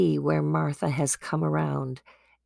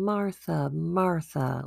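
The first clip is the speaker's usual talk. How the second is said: gentle not mad; 3 dB quieter, slower than usual. Acted. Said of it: "like, "I'm not mad".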